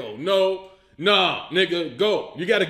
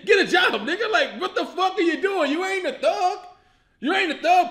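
exasperated laughing rant; 8 semitones higher than usual. Real, not acted. Lecturing movie character, laughing.

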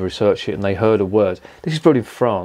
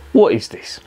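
whisper; 9 semitones higher, 3 dB louder than usual. Real, not acted. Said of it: "reads the can".

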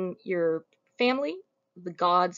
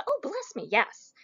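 placating; 5 semitones higher than usual. Retold or imitated. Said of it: "Pseudolus finishes the line with".

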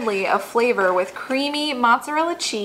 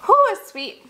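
excited; 10 semitones higher, 3 dB louder than usual. Real, not acted. Tasting the dessert.

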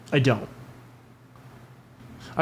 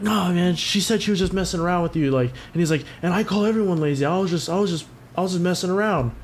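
higher, whiny mock of the coworker backpedalling; 4 semitones higher than usual. Retelling the coworker's excuse to a friend, higher mocking voice. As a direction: play him as squirming out of it, voice pitched up.

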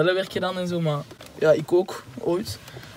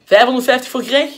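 auctioneer; 4 semitones higher, 3 dB louder than usual. Acted. Auction bidding at Monopoly.

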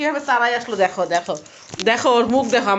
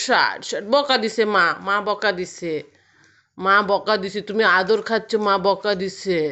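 calm the pet after a scolding; lower, gentle comfort to a pet who was scolded; 5 semitones lower than usual. Real, not acted.

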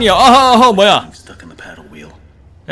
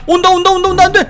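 high, whimpering panic; panicked whimper; 10 semitones higher than usual. Acted. Streamer as the hands grab the boat, high whimpering panic. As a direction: plead as they close in. Monsters closing in.

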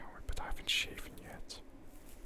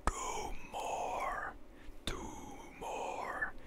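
mock scream; much slower than usual. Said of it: "He was just screaming".

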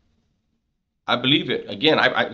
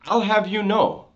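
higher, imitating a street convict's put-on formality; convict phrase; 7 semitones higher than usual. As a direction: quote it like an old-school con trying to sound proper. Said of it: "he'll even say the word, the phrase".

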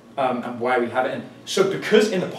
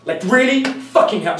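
fake aggression; 4 semitones higher, 3 dB louder than usual. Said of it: "you get aggressive very fast".

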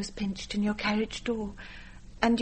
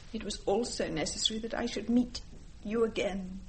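quiet despair; 9 dB quieter than usual. Acted. To the grandmother, recalling cellar and asylum, soft despair. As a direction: let the grief drain the voice.

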